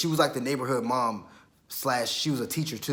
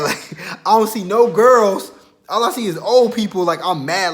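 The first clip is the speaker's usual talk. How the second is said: laughing complaint; 7 semitones higher, 10 dB louder than usual. Real, not acted. Laughing while complaining about the place.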